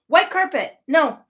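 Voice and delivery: exasperated disbelief. Real, not acted. Incredulous rant about white carpet.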